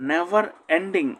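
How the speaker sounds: Never ending said slowly with stress on Never; slow it down for learners; slow, careful classroom model; slow model reading. Shown as a demonstration. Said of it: "teacher models the phrase slowly".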